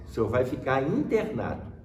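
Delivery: usual speaking voice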